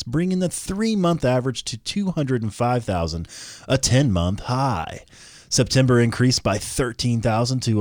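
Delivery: crisp newsreader delivery reading out job figures; news anchor voice. Acted. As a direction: read it like an evening news anchor. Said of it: "You sounded just like a real news anchor".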